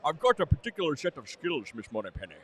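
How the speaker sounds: lightly put-on Scottish brogue, joking; a hint of a bad Connery, half-laughing; bad Sean Connery. Cohost goofing for his friend, a weak Connery voice. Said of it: "like a bad Sean Connery".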